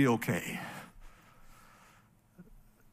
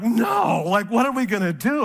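raised, panicked shout of alarm; panicked outcry; 3 semitones higher, 3 dB louder than usual. Retold or imitated. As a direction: cry out in sudden parental panic. Parents panicking over lost son.

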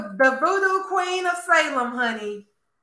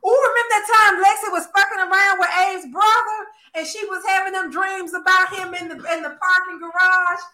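excited gossip; 5 semitones higher than usual. Real, not acted. Gleeful high gossip to friends about Lexi's affair. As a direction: spill the juicy soap tea with glee.

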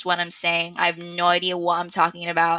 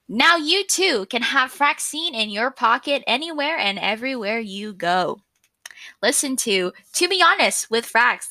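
upbeat announcer read, a touch higher; podcast ad voice; 4 semitones higher than usual. Shown as a demonstration. Demoing her podcast ad for listeners, upbeat announcer voice. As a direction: pitch it like a radio ad. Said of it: "let me give you an example of, like, what my ad would sound like".

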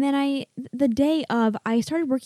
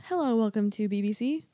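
news anchor. Retold or imitated. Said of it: "then it goes".

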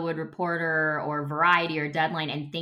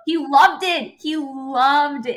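tag; 8 semitones higher, 9 dB louder, much slower than usual. Real, not acted. Laughing over dad's delight.

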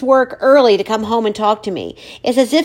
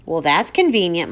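bitter; 3 semitones lower than usual. Acted. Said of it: "my father says bitterly".

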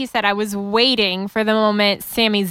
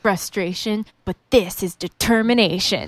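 quoting AJ. Retold or imitated. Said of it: "second reading of the quote".

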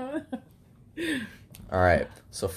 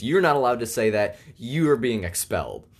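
mildly outraged principal, higher at first; mock freak-out; 3 semitones higher than usual. Principal expelling Jimmy over what he said, mild mock freak-out. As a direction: hand down a punishment with mock outrage. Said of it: "the principal just freaks out".

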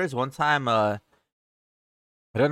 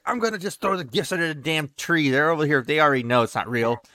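retold annoyed rant, starting higher; lightly acted fed-up father, pitch easing down by the end; pissed-off dad; 3 semitones higher than usual. Dad caught sneaking in with the presents, mildly acted pissed. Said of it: "he was, like, pissed".

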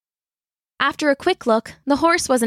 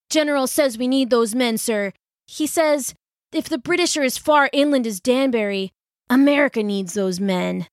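put-on higher young rider, urgent; young messenger; 4 semitones higher than usual. Messenger boy asks the colonel for his militia, higher and urgent. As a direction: plead for help from the colonel.

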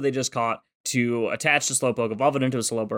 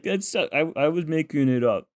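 sheepish. Retold or imitated. Cohost imitating Ash owning up to Misty, sheepish.

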